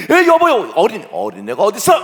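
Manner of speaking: loud, high exclamation; agitated protest. Acted. Spouses argue over whipping the child, loud protest. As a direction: burst out in protest.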